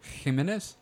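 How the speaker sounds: "Jimenez" with a throaty H and emphasis on the I; "Jimenez", rising, with a raspy first sound; emphasized name pronunciation. Shown as a demonstration. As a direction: question "Jimenez" in an affected Spanish-style pronunciation. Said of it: "you're putting emphasis on, like, the I".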